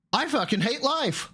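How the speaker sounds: high, slow mock misery; hyperbolic despair. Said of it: "I'm being hyperbolic".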